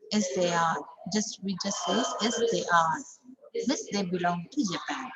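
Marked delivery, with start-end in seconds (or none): 0.1-0.8 short answer ending on a full "are"; strong ARE. Shown as a demonstration. Teacher models the short answer, strong ARE. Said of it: "become strong because it is at the end". 2.2-3.0 full, stressed "are" to finish; strong ARE. Shown as a demonstration. Teacher repeats the short answer, strong ARE. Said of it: "become strong because it is at the end".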